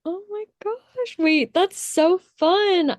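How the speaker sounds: high, drawn-out excited gushing; delighted amazement. Real, not acted. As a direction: gush in amazement, stretching the words right out. Delighted reaction to friend's writing progress.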